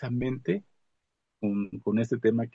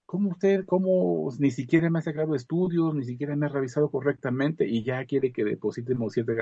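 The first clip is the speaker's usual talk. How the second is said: higher, scornful protest that settles down; indignant protest; 4 semitones higher than usual. Retold or imitated. Old man scoffing at his doctor, higher indignant protest. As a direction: question the doctor with disbelief.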